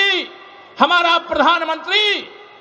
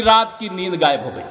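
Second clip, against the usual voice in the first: lower, falling end to the jibe; low punchline; 8 semitones lower than usual. Real, not acted. Speaker mocking the chief minister's lost sleep, low and falling. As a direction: drop the voice as the punchline lands. Punchline about rival, then repeated.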